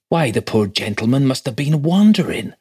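high-pitched country clerk, aghast; shocked. A narrator's reading. Clerk doubting the squire's wits, shocked. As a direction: protest in scandalised disbelief. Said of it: "said Wickham in a shocked voice".

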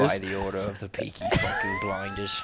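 hammed-up Peaky Blinders Birmingham accent; Peaky Blinders impression. Host hamming up a Peaky Blinders Birmingham accent for his co-host. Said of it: "That was all Peaky Blinders".

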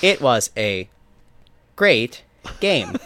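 lightly mechanical announcer read; a hint of a flat automated voice; robot voice. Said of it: "the awful automated voice".

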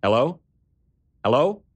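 eager rising hellos into the phone. A narrator's reading. Austin answering an unknown caller, eager. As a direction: call out hopefully, waiting for an answer. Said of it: "I answered eagerly".

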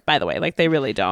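deadpan joke. Acted. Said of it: "That is a joke".

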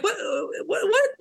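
high-pitched stammered what, retold; mock disbelief. Host retelling his reaction to the broadcast theory, mock disbelief. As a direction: sputter in exaggerated bafflement.

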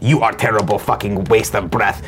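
a hint of a sneering troll, slowish; lightly voiced hater reading his own comment; internet commenter voice. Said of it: "if you do that voice".

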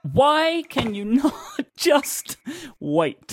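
high exasperated protest; why can't you just wait. Real, not acted. Exasperated at teammate.

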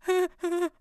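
high, wordless nervous giggle; speechless nervous laugh. Retold or imitated. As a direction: imitate being too overcome to speak. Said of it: "I couldn't even say it".

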